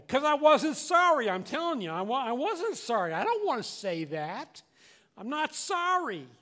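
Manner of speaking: acted-out stubborn refusal; defiant protest. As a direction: dig your heels in like an unrepentant kid. Acting out his refusal to apologise.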